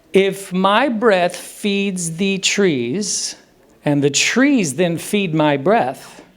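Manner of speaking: put-on slow, measured quote of an old saying; slow recital. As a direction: recite it slowly, spacing out the words. Recites ancient yogis' beautiful phrase.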